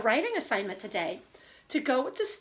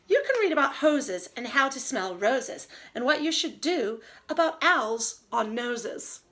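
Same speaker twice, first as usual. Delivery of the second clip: put-on reading to children. Reads story aloud.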